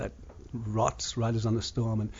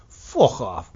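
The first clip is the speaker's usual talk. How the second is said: Scouse sign-off; 6 dB louder than usual. Retold or imitated. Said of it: "I'm just gonna do a blanket".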